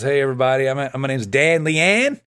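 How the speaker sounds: imitated Australian accent, last word stretched; mock Australian self-introduction; Dan Lian. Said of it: "he's got this strong Australian accent".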